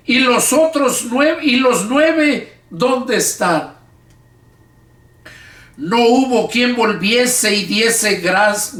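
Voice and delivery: slow, measured Bible reading aloud; Scripture reading. Acted. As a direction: read the Gospel to the congregation, phrase by phrase. (lectura bíblica pausada en voz alta)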